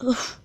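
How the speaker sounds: short puffed scoff; mock scoff as a little breathy noise; demonstrated scoff. Shown as a demonstration. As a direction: let out a dismissive huff. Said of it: "scoffs like this".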